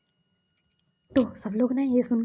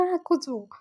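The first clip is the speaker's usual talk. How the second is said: tearful accusation; 3 semitones higher than usual. Retold or imitated. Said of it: "बोल के वो रो रहा था बेचारा".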